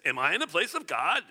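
mildly snippy rhetorical question; touch of irritation, rising at the end; indignant retort. Acted. Jacob answering his wife Rachel, mildly indignant. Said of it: "the tone doesn't seem good".

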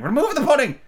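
very high, loud order; Red Queen ordering the waiters; royal command. A narrator's reading. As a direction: bark the order at the servants.

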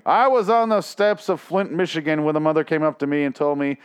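lightly voiced smarmy politician; mock politician. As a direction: play a smug politician telling a sob story. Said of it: "this is like a politician".

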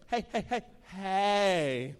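mock motherly interruption; mom calling out. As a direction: call out to stop the ruckus. Mom calls down on hearing ruckus.

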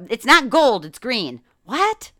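baffled retort with a high, incredulous "What?"; mock confusion. Retelling store staff hunting for cigarettes, mock confused. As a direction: act out bewildered store staff, pitch leaping up. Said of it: "confused the hell out of".

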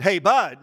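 imitated emphatic "Hey, Bud" with a punched BUD; "Bud" stressed as a forceful opener. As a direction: land firmly on "Bud". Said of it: "wanted to be emphatic".

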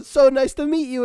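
high-pitched mock delight; gushing greeting. Giorgio meets the significant others, gushing. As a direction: play up being thrilled to meet them.

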